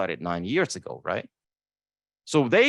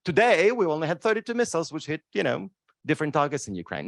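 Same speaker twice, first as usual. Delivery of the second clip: higher, bright mock weather report; mock weather forecast; 5 semitones higher than usual. Mocking the war reports as a weather forecast. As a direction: read it like a mild parody of the weather news. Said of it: "It looks like a weather forecast".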